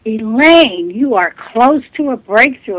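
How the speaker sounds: put-on excited North Carolina accent, lifted and emphatic; loud, eager North Carolina accent on the opening name; Carl Hewitt. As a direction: imitate an excited North Carolina gentleman calling out good news. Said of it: "I heard his distinctive voice say".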